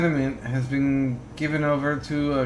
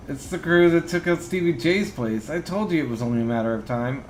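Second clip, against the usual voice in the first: panicked squeak; 2 semitones higher than usual. Acted. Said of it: "squeaks in a panic".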